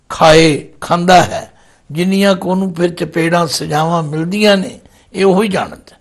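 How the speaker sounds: ordinary talk, nothing marked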